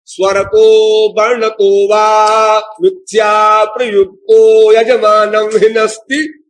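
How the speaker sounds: slow, sustained chanted Sanskrit; Sanskrit verse recitation. Shown as a demonstration. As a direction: intone the verse with long held vowels.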